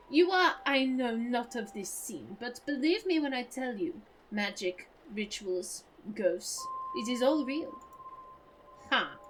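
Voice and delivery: lightly voiced comic French accent; a hint of allo allo French. Debunker insists magic is real, in a French accent. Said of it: "my French accent is more allo allo".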